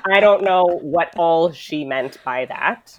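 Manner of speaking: slow, laughing through the words. Real, not acted. Laughing with the host about not knowing the meaning. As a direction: chuckle it out, a bit sheepish.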